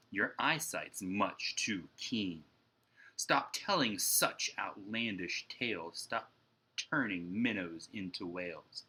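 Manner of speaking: mild, slow stern father; a hint of a scolding father; lightly voiced stern father; stern dad. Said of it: "he looks at me and sternly says".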